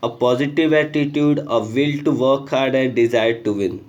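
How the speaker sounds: slow, deliberate read of a textbook line; reading the rule aloud. Acted. Teacher reading the example sentence to students, slow and deliberate. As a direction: spell the sentence out for the class.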